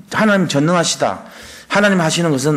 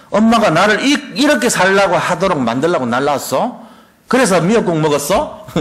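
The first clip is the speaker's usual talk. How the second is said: mock accusation, laughing; 2 semitones higher than usual. Son accuses mother, mock.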